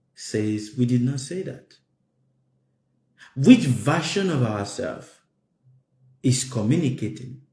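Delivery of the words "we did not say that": normal talking voice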